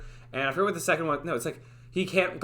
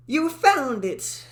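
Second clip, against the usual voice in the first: cracking character voice; 8 semitones higher, 4 dB louder, much slower than usual. Acted. Dev's take spoiled by a voice crack. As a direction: voice cracks up high mid-line. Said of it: "that's a voice crack".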